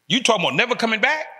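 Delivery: mock incredulous question, rising at the end. Friend questions his plan to leave for good, incredulous. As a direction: act out a friend's disbelief.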